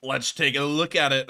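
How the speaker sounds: badly faked Australian accent; hammed-up, unconvincing Aussie accent; terrible Australian accent. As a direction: have a clumsy go at an Australian accent. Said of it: "that was a terrible accent".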